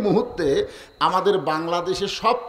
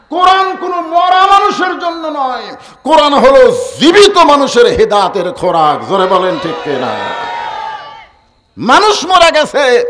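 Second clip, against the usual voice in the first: high, shouted sermon proclamation; loud, impassioned preaching; full-force preaching; 6 semitones higher, 9 dB louder than usual. Acted. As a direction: thunder it out to the crowd.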